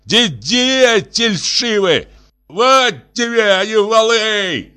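slow, high-pitched furious shout; shouted insult. A narrator's reading. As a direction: yell it up from below the steps. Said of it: "крикнул снизу Лысый".

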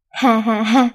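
a free, gleeful burst of laughter; loud laugh. A narrator's reading. Daughter laughing alone in the street, gleeful laugh. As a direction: laugh out with relief, not too hard. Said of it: "bỗng Hương đứng lại cười thật to".

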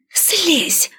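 sharp high yell; desperate high shout. A narrator's reading. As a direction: cry out to get her off. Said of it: "снова завопила я".

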